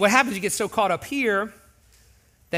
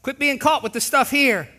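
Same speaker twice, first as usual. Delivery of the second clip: friendly call out; 4 semitones higher, slower than usual. Retold or imitated. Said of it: "we need others to say".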